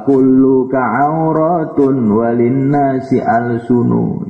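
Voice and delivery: slow, measured Arabic verse recitation; slow sung-out Arabic poetry; recited poem. Acted. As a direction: chant the verses slowly and solemnly. Recited Arabic poem of Imam Syafi'i.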